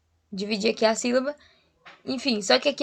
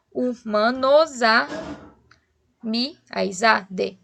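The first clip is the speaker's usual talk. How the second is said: slow "hu-ma-no-za-mi", one beat each; counting poetic syllables; much slower than usual. Shown as a demonstration. Teacher counting ten poetic syllables, slow separated beats. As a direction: space out "humanos a mi" syllable by syllable. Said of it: "assim eu conto dez sílabas poéticas".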